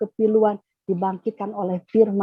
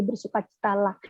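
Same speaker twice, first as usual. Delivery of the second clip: soft repeat; 7 dB quieter than usual. Retold or imitated. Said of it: "Katakan sekali lagi".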